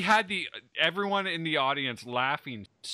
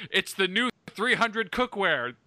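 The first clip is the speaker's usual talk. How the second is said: mock movie hero; 5 semitones higher than usual. Jim mocking the horror movie character, parody epic cry. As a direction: ham it up like an epic war film. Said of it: "And Jim's response is".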